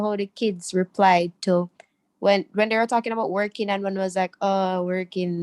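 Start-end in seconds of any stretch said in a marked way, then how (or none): 4.4-5.4 slow, mildly unenthused imitation; unenthusiastic. Student imitates a kid facing work, mildly unenthusiastic. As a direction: drag it out a little, mock reluctance. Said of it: "non-enthusiastically".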